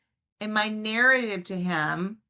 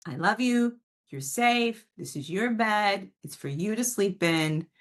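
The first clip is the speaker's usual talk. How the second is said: warm firm bedtime words. Shown as a demonstration. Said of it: "holding the line warmly and compassionately".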